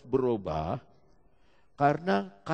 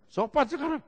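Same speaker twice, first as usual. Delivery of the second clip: lightly mimicked polite man, pitched up; polite mimicry; 12 semitones higher, 4 dB louder than usual. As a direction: play the polite man mockingly. (sopan dibuat-buat)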